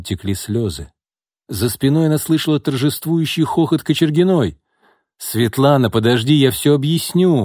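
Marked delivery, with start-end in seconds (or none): 5.2-7.4 rapid pleading chatter. A narrator's reading. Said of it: "быстро затараторил Сергей".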